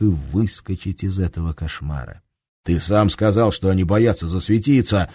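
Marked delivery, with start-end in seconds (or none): 2.6-5.1 raised, urgent voice; almost shouting. Acted. Shams argues back at the commander, almost shouting. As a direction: nearly yell it. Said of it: "почти закричал Шамс".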